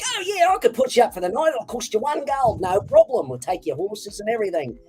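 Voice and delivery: upbeat Australian innkeeper; cheery Australian accent. Acted. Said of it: "they were all Australian, totally cheery".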